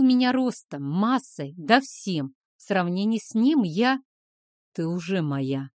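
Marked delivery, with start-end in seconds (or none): 4.7-5.7 growled. Acted. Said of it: "прорычал он".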